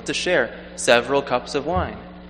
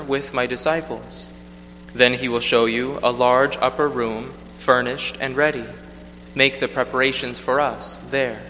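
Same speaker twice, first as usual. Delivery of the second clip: measured liturgical proclamation; Gospel reading. Acted. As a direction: read solemnly from the lectern.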